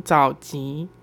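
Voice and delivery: 早级 said with a nasal ng sound; correct Taiwanese pronunciation. Shown as a demonstration. 告诉听众早前的台语正确读法，早级带嗯的鼻音. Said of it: "要有那个嗯的音".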